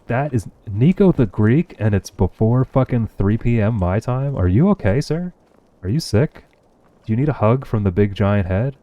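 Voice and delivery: real delight, teasing a buddy; excited greeting. Real, not acted. Excited greeting of a regular viewer.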